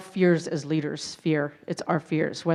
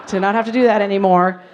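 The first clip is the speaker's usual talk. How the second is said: laughing; 2 semitones higher, 6 dB louder than usual. Real, not acted. Laughing at quitting the Army.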